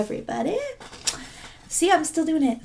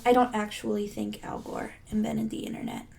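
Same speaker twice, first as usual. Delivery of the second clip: joking whispered aside; confiding aside under the breath; 6 semitones lower, 10 dB quieter, much faster than usual. Real, not acted. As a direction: drop to a whisper for the joke. Joking aside about Al Gore.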